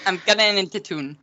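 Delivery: clumsy Geordie try, "town" as "tune"; faked Geordie accent. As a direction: attempt Geordie without quite managing it. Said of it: "I can't fake it".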